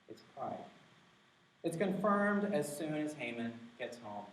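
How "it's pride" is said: breathy whisper of the word pride; a hushed repeated pride. Shown as a demonstration. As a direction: whisper it like a confession. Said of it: "the answer is obvious, isn't it?".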